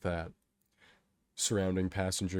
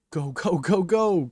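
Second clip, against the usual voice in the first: loud, high rapid-fire urging; yelling; 10 semitones higher, 10 dB louder, slower than usual. A narrator's reading. Kato shoving him towards the edge, urgent yell. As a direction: yell it over and over, building. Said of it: "Kato yells".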